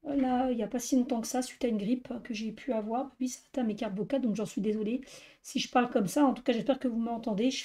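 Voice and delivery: voix enrouée, presque sans voix; voix éteinte. Real, not acted. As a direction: parle avec une extinction de voix. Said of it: "j'ai une extinction de voix". (voix cassée après une grippe)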